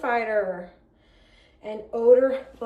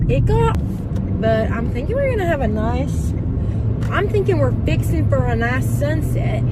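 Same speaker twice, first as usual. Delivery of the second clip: put-on southern accent; 5 dB louder than usual. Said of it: "this southern accent's going crazy".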